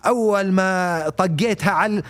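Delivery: put-on quick, imperfect Gulf Arabic accent; attempted Gulf accent. Mimicking a man boasting about his wife, shaky attempt at Gulf accent. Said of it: "with the G C C accent".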